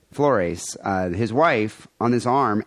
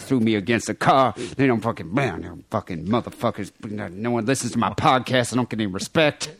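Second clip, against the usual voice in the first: swearing tirade. Retold or imitated. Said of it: "That's just muttering profanity".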